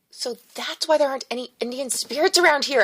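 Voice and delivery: excited near-yell; practically yelling. A narrator's reading. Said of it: "I practically yelled".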